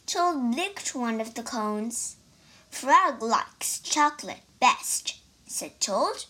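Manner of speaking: reading a picture book aloud, line by line; story narration. A narrator's reading. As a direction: tell the story to listeners in a lively way. Child reads story aloud.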